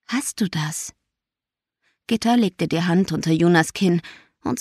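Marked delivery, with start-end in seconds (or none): 0.1-0.9 gentle question. A narrator's reading. Mother gently asks her daughter.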